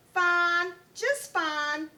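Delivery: bravely insisting she is fine; brave reply. A narrator's reading. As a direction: answer brightly to hide the strain. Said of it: "Koala Lou would reply".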